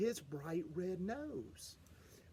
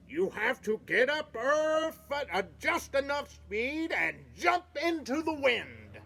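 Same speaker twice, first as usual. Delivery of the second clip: coach calling out; 6 semitones higher, 3 dB louder than usual. Acted. Coach instructs fawns.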